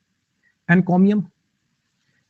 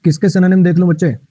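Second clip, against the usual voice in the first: loud call out; 6 dB louder than usual. Real, not acted. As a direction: raise your voice to get the class's attention. Calls out to students.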